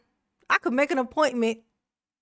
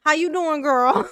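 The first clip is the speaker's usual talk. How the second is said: mock sweet greeting; 4 semitones higher than usual. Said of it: "We're gonna pretend it is".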